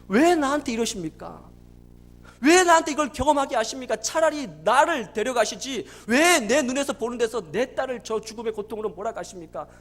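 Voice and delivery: retold outcry, pushing hard on each 왜; anguished protest. Father demanding why God does this, retold anguished protest. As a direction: challenge God in reproach, loud start, falling away. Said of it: "병원에서 그렇게 울부짖었대요".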